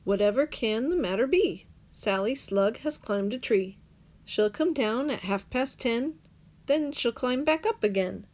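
ordinary delivery, nothing marked

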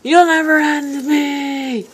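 defiant yell. Acted. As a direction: shout it back at the villain. Taunting, repeated louder.

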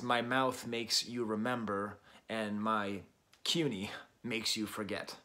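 slow, careful reading of the lyric. Shown as a demonstration. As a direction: savour each word of the line. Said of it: "the line that she has that uses that title is".

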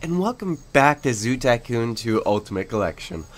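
booming show intro announcer. Acted. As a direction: welcome them like a TV announcer. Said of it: "I sounded just like an announcer right then".

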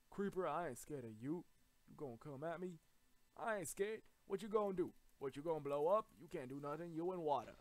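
loud, cocky challenge; cocky taunting. Pretend. Gamer calling out a creeper, loud cocky taunt. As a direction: taunt it with punched phrases.

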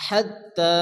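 "হাত্তা" with breathed "হ", long "তা"; teacher's measured "হাত্তা"; airy heavy H. Shown as a demonstration. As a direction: push air out on the "হ" of "হাত্তা". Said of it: "মুখ দিয়ে বাতাস বাইর করে".

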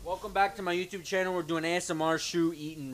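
fast, hyped YouTuber greeting; YouTuber intro. Pretend. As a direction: play the eager vlogger host.

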